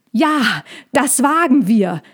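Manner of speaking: high, plucky little hedgehog cry; defiant call from a tiny creature; small defiant shout. A narrator's reading. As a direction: shout bravely, though not very loud. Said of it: "rief der Igel so laut, wie er noch nie etwas gerufen hatte".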